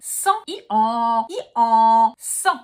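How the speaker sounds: "Sang" with nasal "en", between loud hee-haws; nasal donkey-bray vowel. Shown as a demonstration. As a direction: alternate "sang" with a braying "E-en". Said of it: "It's exactly the same".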